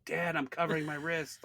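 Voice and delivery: imitating an obvious, showy child; ostentatious. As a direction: announce it showily, like a child giving away a secret. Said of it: "like, real ostentatiously".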